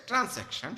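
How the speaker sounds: "ট্রান্স্যাকশন" said as trans + action, with an s sound; spelling pronunciation. Shown as a demonstration. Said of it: "সংক্ষেপে বোঝার জন্য".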